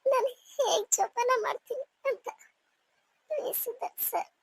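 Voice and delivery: begging him through tears; tearful pleading. Acted. Wife begs husband not to leave. (ಅಳುತ್ತಾ ಬೇಡಿಕೊಳ್ಳುವ ದನಿ)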